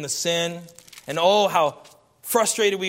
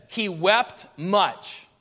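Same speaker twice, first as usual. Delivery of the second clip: each word dragged out in sorrow; a mild mournful slow reading; slow, heavy grief; much slower than usual. Shown as a demonstration. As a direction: let "He wept much" sink slowly, mournful. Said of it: "it means this".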